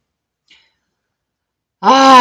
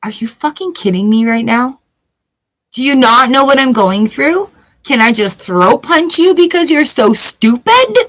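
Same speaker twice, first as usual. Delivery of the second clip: inner exasperation; 3 semitones higher than usual. Retold or imitated. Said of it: "voices that come in our head".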